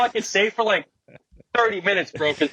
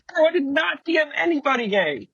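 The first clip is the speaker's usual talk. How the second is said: much higher, strained retold protest; high, alarmed replay of his own protest; mock panicked denial; 7 semitones higher than usual. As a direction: squeak out the denial like you're panicking. Retold reaction to fake screenshot.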